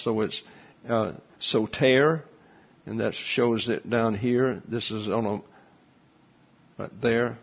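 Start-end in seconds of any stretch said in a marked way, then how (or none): 1.4-2.2 "soter" said slowly with a long A in "-ter"; long A sound. Shown as a demonstration. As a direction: draw out "soter" as so-TAIR, second syllable stressed. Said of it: "has a long A sound when it's pronounced".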